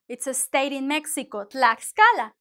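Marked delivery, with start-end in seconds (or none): 1.4-2.3 "Tlaxcala" said firmly and louder, with KS before "cala"; emphatic model of "Tlaxcala" with clear KS. Shown as a demonstration. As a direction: sound the X of "Tlaxcala" as K plus S. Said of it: "The same".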